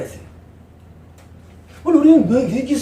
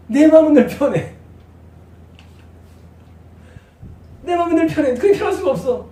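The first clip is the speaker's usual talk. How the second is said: higher, louder emphatic cry; excited exclaim; 6 semitones higher, 3 dB louder than usual. Acted. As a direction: proclaim it with fervour. Preaching emphasis.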